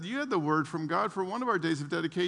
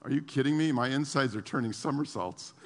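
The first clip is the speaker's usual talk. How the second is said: deadpan Phil; 6 semitones lower than usual. Retold or imitated. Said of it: "never expresses any emotion".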